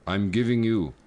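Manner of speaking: slow, measured mock Native American accent; lightly acted Native American accent. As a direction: put on a stereotyped Native American accent, spacing the phrases. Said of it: "the Native American accent".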